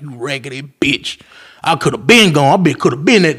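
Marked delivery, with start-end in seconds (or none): 0.0-1.2 muttered under breath. Retold or imitated. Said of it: "I'm looking at this bitch like".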